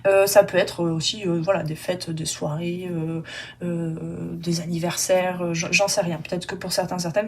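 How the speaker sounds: normal talking voice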